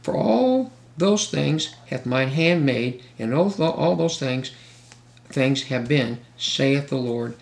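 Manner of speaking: slow, weighty reading of scripture; preacher reads verse to congregation, slow and solemn. Acted. Read each word slow and grave.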